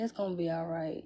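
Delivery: soft, gentle comfort; reassuring. Retold or imitated. Son reassuring his crying mom at the car, softly. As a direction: ease her tears quietly.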